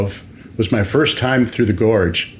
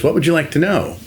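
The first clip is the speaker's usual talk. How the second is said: eager relief; 6 semitones higher, faster than usual. Retold or imitated. Relieved worker answers his boss brightly.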